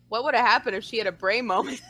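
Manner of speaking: laughing through the quote. Retold or imitated. Laughing to herself about the crying fan. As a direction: giggle as you voice your own thought. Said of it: "I was like".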